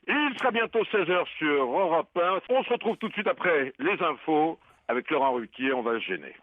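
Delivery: smooth cabin-announcement voice; flight attendant voice. Acted. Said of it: "prenez votre voix d'hôtesse de l'air".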